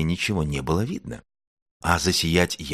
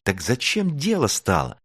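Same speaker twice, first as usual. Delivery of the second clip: high, eager exclamation; rally everyone brightly to action; pitched-up enthusiastic cry; exclaiming; 7 semitones higher than usual. A narrator's reading. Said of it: "воскликнула Звёздочка".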